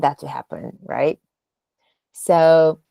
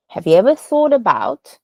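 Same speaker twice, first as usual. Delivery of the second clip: "thought about" pitched up for emphasis; demonstrated question with a raised "thought"; 4 dB louder than usual. Shown as a demonstration. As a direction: lift "thought" clearly in the question. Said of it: "you go up".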